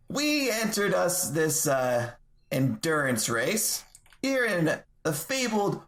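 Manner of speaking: lightly performed rallying speech, deliberate pacing; measured tavern oration; in-character speech. Acted. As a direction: address the crowd as a self-introducing speaker. In-character speech to bar crowd.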